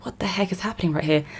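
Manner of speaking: hushed, baffled whisper; a breathy, incredulous whisper; whispered disbelief. Retold or imitated. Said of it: "I'm like".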